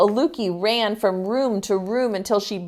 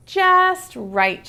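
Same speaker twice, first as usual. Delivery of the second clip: put-on pleased girl voice; 10 semitones higher than usual. Aluki pleased with boots.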